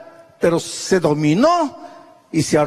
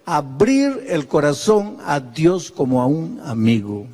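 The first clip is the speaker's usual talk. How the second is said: "Abrir el corazón a Dios como a un amigo" lower, slower and gentle; slow, lower reflective repeat; soft slow reflection; 3 semitones lower than usual. Real, not acted. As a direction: let it sink in slowly. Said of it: "repeats the line".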